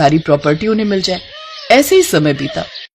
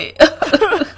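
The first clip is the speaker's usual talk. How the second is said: sly laugh; 11 semitones higher than usual. Acted. Greedy maid's hidden laugh.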